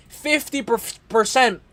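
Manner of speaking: stumbling on "percent", first syllable repeated; slow "Fifty percent" that trips on "per-"; stuttering. Real, not acted. Analyst tripping over a fight statistic, stuttering. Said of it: "I'm stuttering".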